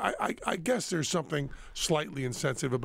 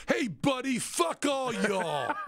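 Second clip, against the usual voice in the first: put-on hostile American accent; 8 semitones higher, much slower than usual. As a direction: shout it as an angry, over-the-top American. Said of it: "Piff, do your American accent".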